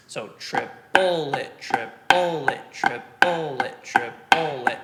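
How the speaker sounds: "triplet" with the second syllable punched long and loud; accent on second syllable. Shown as a demonstration. Drum teacher showing accented triplets, second-syllable stress. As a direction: chant "triplet", slowly, leaning hard on the middle. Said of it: "move the accent to the second partial".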